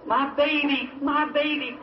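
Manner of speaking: frantic cry. Retold or imitated. Frantic mother in flood.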